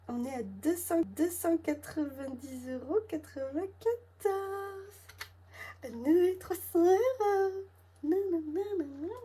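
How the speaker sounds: high and loud, slowly spelling out the amount; excited disbelief. Real, not acted. Budgeting woman thrilled to find three hundred euros saved, excited squeal. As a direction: squeal the total in delighted disbelief.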